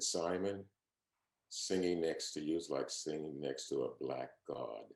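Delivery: hushed, moved quote. Retold or imitated. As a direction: say it softly, touched to tears. Leontyne in tears, quoted.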